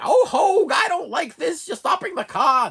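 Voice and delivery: hammed-up panicked Miss Daisy with a laugh; Jessica Tandy impression. YouTuber imitating Jessica Tandy scolding her driver. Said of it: "that was my Jessica Tandy".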